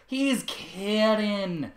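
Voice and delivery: very slow, high covering call; nervous shout with a laugh. Acted. Apple Bloom covers for her uncle with a nervous laughing shout. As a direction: laugh it off loudly to save face. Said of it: "Aunt Bloom shouted with another laugh".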